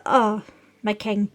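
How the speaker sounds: put-on high, loud, outraged old Zora; indignant old advisor voice. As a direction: protest shrilly to the king. Streamer voices Muzu.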